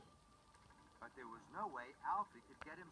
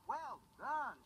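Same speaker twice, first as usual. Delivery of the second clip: cheering shout; 9 semitones higher, 6 dB louder than usual. Acted. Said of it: "shouted Kelly".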